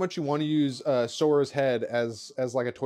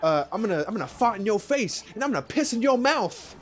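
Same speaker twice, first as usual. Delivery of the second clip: quoting a woman; 8 semitones higher than usual. Retold or imitated. Retelling the woman's line in movie.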